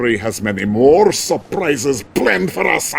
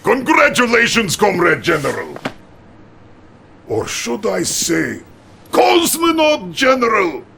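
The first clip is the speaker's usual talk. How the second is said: jubilant congratulations; 7 semitones higher than usual. Acted. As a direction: shout the new title with glee. Premier congratulating his general.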